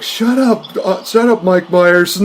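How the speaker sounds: high, annoyed shut up; mock annoyed yell. Robot Chicken cast to Mike Myers, high mock annoyed shout. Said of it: "It's like".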